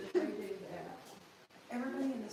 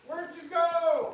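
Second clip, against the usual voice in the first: whispering; 7 semitones higher, 14 dB louder, much slower than usual. Real, not acted. Hide and seek, seeker whispering.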